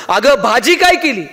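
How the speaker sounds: slow, drawn-out call of "भाजी काय केली", "काय" stretched and pushed; a half-hearted mock yell, slowly; shouted into the ear. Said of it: "जोरात कानात ओरडला".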